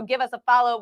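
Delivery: ordinary talk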